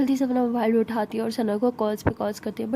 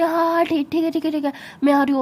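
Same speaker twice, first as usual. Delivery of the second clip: louder and higher, tumbling reassurance; louder, higher flustered promise to rush home; flustered panic; 4 semitones higher, 4 dB louder, faster than usual. Acted.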